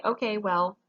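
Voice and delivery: lightly voiced student working it out; a touch of a student justifying their choice; imagined student reasoning. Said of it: "you cannot say".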